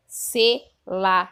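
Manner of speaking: very slow and loud, each syllable of acarçu drawn out; teacher dictating the scrambled word acarçu very slowly; slow syllable reading. Shown as a demonstration. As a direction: sound out acarçu syllable by syllable for kids. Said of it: "Eu vou ler do jeito que está no livro".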